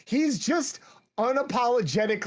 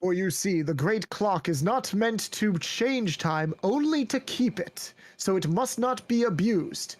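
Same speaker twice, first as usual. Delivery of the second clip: narrator voice. Shown as a demonstration. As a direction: read it like an epic trailer narrator. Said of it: "slip into, like, your narrator voice".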